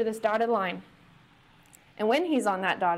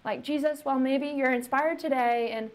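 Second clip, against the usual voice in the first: casual ask; 4 semitones higher than usual. Retold or imitated. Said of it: "This is not like".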